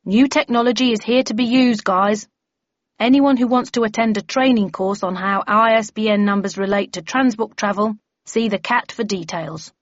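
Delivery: bellman chairing briefing. Acted. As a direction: lay down procedure to the members.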